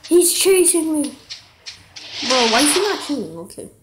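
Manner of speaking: loud, high, frantic gamer yelling; panicking gamer. Real, not acted. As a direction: panic through a losing gunfight. Frantic shooter fight, yelling.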